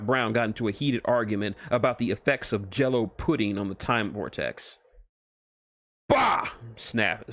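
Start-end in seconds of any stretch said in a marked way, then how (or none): 6.1-6.5 much higher, louder scornful bark; Doom snapping at the others. Acted. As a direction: spit out the word in contempt. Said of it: "snapped Doom".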